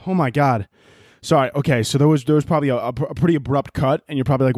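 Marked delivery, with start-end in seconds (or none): 0.1-0.7 real winded sigh, then talk; out of breath. Real, not acted. Podcaster back from helping uncle move a toilet, out of breath. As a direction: catch your breath with a big exhale. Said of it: "Why is he out of breath".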